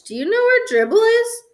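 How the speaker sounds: high, sing-song coaxing question; mock-calm questioning of a little brother. A narrator's reading. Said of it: "I asked calmly".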